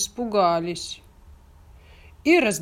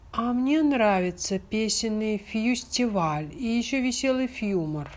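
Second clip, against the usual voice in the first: squeaky chick; 4 semitones higher than usual. Acted. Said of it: "пискнул в сарае цыплёнок Фик".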